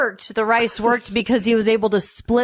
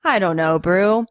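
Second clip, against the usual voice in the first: lowered, a touch of hammed-up despair; mock weary Hulk; 4 semitones lower than usual. Hulk sighing to Brew, mock weary lament. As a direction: lament it to Brew, half joking. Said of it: "in typical, you know, Hulk fashion".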